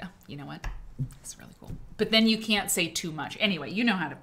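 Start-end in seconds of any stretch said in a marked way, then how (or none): 0.0-1.7 soft admiring. Retold or imitated. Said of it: "You just have to be like".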